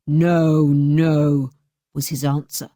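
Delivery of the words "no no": lower, firm refusal; curt refusal. A narrator's reading. Bluebeard refusing his wife. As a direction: cut her off.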